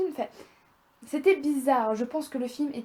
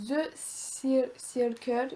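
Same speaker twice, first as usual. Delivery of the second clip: French-accented English; much slower than usual. Real, not acted. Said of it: "mon accent anglais magnifiquement magnifique".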